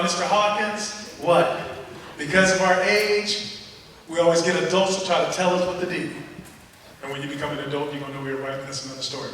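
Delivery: lightly voiced kid's inner speech. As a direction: let the kid's thoughts sink to a near whisper. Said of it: "Let me translate it".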